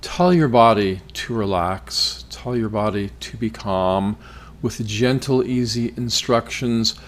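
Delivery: measured, calming meditation voice; guided relaxation. Acted. Podcast host settles listeners before practice, guided relaxation. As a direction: ease them into calm with spaced phrases.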